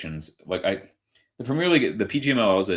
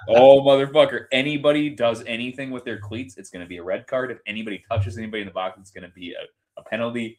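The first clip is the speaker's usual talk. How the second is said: mock referee; 4 semitones higher, 4 dB louder than usual. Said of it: "sitting there just going".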